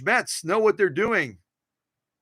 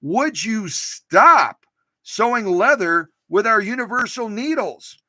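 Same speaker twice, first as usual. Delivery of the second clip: mock stern executive; 4 semitones higher, 4 dB louder, slower than usual. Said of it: "a nasty note from one of their big shots saying".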